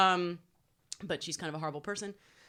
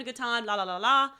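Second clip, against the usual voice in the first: carefree singsong; 4 semitones higher, 6 dB louder than usual. Acted. Voicing carefree fun before shock.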